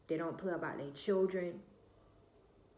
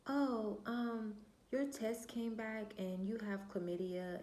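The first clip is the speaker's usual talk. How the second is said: lightly imitated clinic lady in higher pitch; hesitant, higher-pitched official breaking news; clinic caller; 5 semitones higher than usual. Clinic lady gives teen test results, lightly imitated higher voice.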